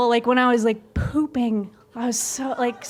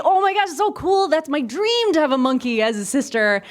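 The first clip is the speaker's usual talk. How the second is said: put-on gushing kids; 3 semitones higher than usual. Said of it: "a lot of kids would say".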